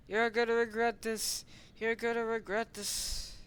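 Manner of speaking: high, loud mock-angry warning; play-acted threat. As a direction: threaten like an outraged cartoon fighter. Toy figure threatens attacker.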